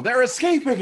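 high, loud panicked yell. Acted. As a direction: shout it as fleeing guards. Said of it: "so they yell".

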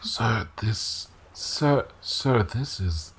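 soft, hushed voice; hushed, halting address to a superior; in-character whisper. Acted. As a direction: keep it down to a stage whisper. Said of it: "he's always in a whisper".

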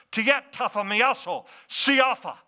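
Jesus' words in Greek; Greek phrase. Shown as a demonstration. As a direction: sound out "Tiet tapha miaso, siafa" carefully, lifting the final "siafa". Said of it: "The way Jesus said it was this".

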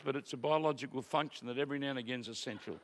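talking while blowing nose; quick words through a nose blow. Real, not acted. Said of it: "excuse me blowing my nose".

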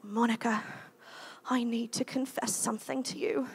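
lightly imitated British accent; a hint of an English college boy confessing. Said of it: "in his little British accent".

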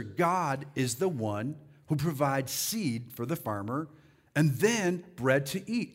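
slow, measured scripture reading. Shown as a demonstration. Preacher pointing congregation to the verse, slow reading. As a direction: draw the verse out. Rereads the verse slowly for emphasis.

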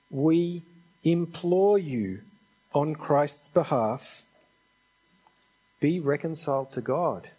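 slow, weighty appeal; drawn-out, earnest entreaty; imploring. Retold or imitated. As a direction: implore them with long, deliberate pauses. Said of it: "this is where I'm gonna start begging".

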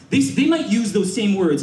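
ordinary talk

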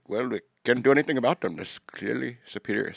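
put-on Indian accent. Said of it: "Sorry for my racist Indian accent".

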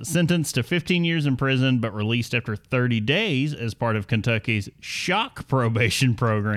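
scripted story read with lively swooping emphasis; news read. Acted. Host reading the bourbon theft story to co-hosts, news read. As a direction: read it out like a podcast news segment.

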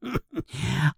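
sneering little snicker; mean laugh. Acted. Bully laughing at his own cruel joke, mean snicker. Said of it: "He laughs at his own meanness".

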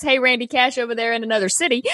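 shouted fast and emphatic; mock shout. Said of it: "It's not just, "Hey, Randy Cash over there".

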